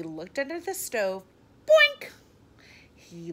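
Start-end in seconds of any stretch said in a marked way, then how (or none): 1.6-2.1 high, loud comic bonk; sound effect. A narrator's reading. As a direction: pop it out like a cartoon bump. Sound effect of bumped head.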